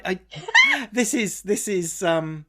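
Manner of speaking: high, giggly stammer; laughing. Real, not acted. Explaining a mermaid pregnancy problem, laughing. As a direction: crack up while trying to start. Cracking up over own mermaid question.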